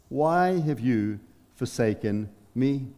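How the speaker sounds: quietly bewildered appeal to the Father; Jesus forsaken. Acted. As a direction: let the cry sink, word by word. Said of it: "as he cries out".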